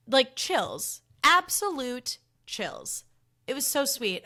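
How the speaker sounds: high, emphatic amazement; awestruck gushing. Real, not acted. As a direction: gush it, stretching the words out slowly. Gushing over a moving moment.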